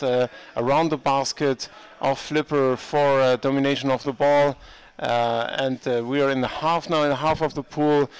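brisk sports commentary; live play-by-play. Acted. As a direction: call the game as it happens.

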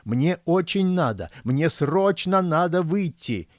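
put-on high, insistent old man's plea; squealing. A narrator's reading. Old man desperate to get past guard, squealing. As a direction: plead urgently in a high voice. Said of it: "заверещал он".

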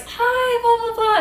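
very high, squealed mock hello; gushing greeting imitation. Singer runs over to greet fans, high-pitched mock gushing.

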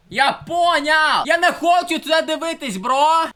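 drawn-out loud fed-up shout; exasperated yell. Real, not acted. Streamer yelling at a forced ad, fed up. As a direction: yell it out, sick of the ad.

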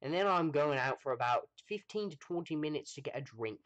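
put-on Australian accent, pitched a little high. Streamer telling viewers about a drink break, mock Australian accent. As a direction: have a go at sounding Australian. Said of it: "I should do an Australian accent".

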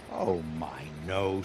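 soft polite denial; gently polite. A narrator's reading. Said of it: "said Oliver politely".

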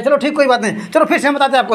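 said through a chuckle; laughing. Real, not acted. Parent laughs off Sarthak's tantrum, chuckling through words. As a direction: laugh it off gently.

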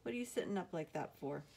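half-asleep grandpa asking; sleepy voice. Acted. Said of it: "In a sleepy voice".

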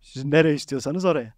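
lightly acted smooth confidence; self-assured. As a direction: answer them like you're totally sure of yourself. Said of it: "Sercan kalktı kendinden emin".

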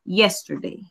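spaced out words; teacher modelling the past tense; slow example sentence. Shown as a demonstration. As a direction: read the example slowly. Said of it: "sería".

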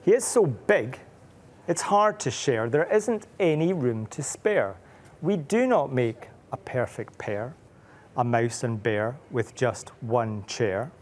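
slow sing-song reading of a rhyme; rhyming read-aloud. A narrator's reading. Parent reading rhyming picture book, slow sing-song. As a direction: read the rhyme slowly to a child. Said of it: "the mouse says".

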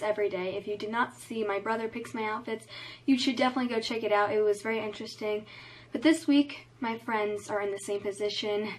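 talking around a retainer; retainer in mouth. Real, not acted. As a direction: speak with a retainer in. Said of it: "my retainer's in".

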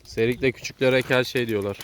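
slow, clear repeat for a listener. Real, not acted. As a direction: spell it out slowly.

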